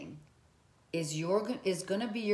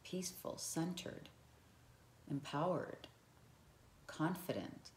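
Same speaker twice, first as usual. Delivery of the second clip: calm; 8 dB quieter than usual. Shown as a demonstration. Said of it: "And then you become like this".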